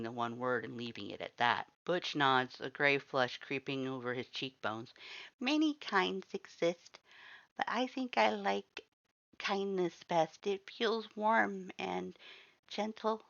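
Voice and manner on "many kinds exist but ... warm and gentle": a shy creature tenderly admiring kindness; gentle skeleton voice. Acted. Butch tells the reader he likes kindness, slow and gentle.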